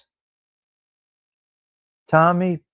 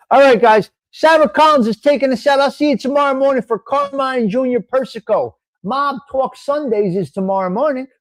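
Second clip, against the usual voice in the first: excited sign-off; 7 semitones higher, 4 dB louder than usual. Real, not acted. Loud sign-off to viewers.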